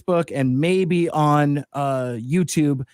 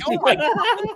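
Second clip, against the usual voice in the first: high, exaggerated mock dismay; mock shock. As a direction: play up fake horror. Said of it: "I'm like".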